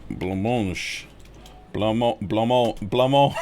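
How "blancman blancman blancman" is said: slow, broken-off blancman- repeated; halting attempt. Shown as a demonstration. Streamer sounding out the word, slow and halting. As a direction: stumble toward the word syllable by syllable. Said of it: "I think it's like this".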